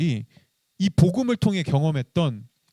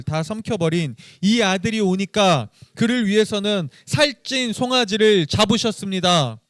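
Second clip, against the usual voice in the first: resentful reading; 2 semitones higher, 3 dB louder than usual. Acted. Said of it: "이 첫째 아들의 한번 이 심정을 생각하면서 한번 읽어보겠습니다".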